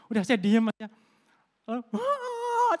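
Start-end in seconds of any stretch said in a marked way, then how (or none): 1.9-2.7 very high mock cry of a sobbing wife; imitated scream. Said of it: "tambah teriak keras".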